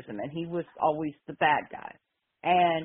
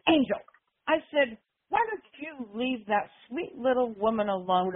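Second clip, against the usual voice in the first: scolding callout; 5 semitones higher than usual. Retold or imitated. Retelling herself calling out the wrestler.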